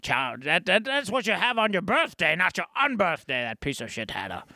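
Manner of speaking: low, softening put-on voice; grumbling sidekick character. Sidekick grumbles about the Hatter, low muttered mock anger. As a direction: wind down from a rant, still sore.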